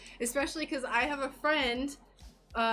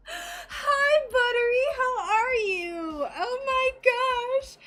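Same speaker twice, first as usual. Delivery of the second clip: excited; 11 semitones higher, 7 dB louder, slower than usual. Real, not acted. Greeting a favourite viewer.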